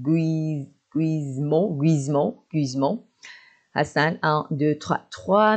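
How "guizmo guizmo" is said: ordinary delivery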